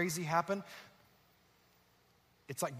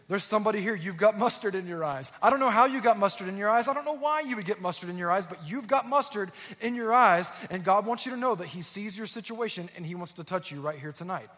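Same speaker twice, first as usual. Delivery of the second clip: louder, higher and more urgent prophetic call; the pastor repeats his word to a silent church, pleading louder; insistent preaching; 3 semitones higher, 4 dB louder than usual. Retold or imitated. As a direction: press the word on the crowd.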